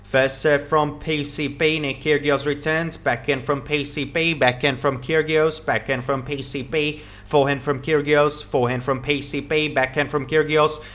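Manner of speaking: quick rhythmic rally calls, each shot named; steady live commentary calling the rally; tennis play-by-play. Acted. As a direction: call every shot as it's struck.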